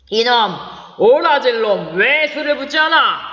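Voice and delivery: put-on rough shout at the serving boy; drunken scolding. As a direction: bark at the boy to pour. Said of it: "야단을 쳤다".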